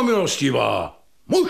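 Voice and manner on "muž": scornful laugh on the word; mocking laugh. Widow laughing at the visitor's claim, mocking laugh. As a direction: laugh it off in disbelief.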